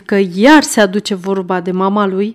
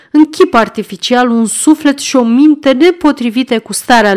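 a lightly voiced, raised, lecturing beadle; pompous beadle; 5 semitones higher than usual. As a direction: hold forth like a self-important parish official. Narrator voicing pompous Bumble. (bedelul pompos, glas ridicat și dojenitor)

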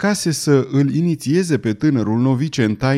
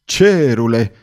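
loud cry of dismay; exclaiming; 5 dB louder, slower than usual. Acted. Mrs Weldon to cousin Benedict, loud exasperated exclamation. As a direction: throw up your hands, louder. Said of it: "strigă doamna Weldon".

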